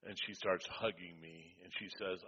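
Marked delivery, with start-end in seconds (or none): none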